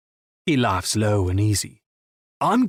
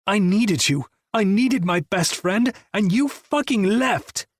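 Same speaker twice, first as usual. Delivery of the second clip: high, slow, breaking fury; hurt rage; 8 semitones higher than usual. Acted. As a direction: drag it out, wounded and furious. Raging, hurt at friend.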